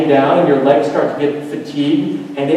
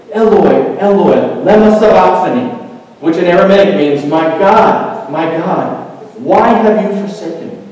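raised, louder preacher's rendering of a cry; crying out loudly; 4 semitones higher, 5 dB louder than usual. Retold or imitated. Preacher quotes Jesus on the cross, crying out. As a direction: call it out as if to God. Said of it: "Jesus cried out in a loud voice".

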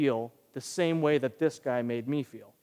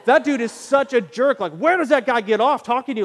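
higher, louder outraged rant; indignant rant; 7 semitones higher, 8 dB louder than usual. Retold or imitated. Voicing his outraged inner thoughts about the man, indignant rant. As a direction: let the offense boil over. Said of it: "only it wasn't the word jerk".

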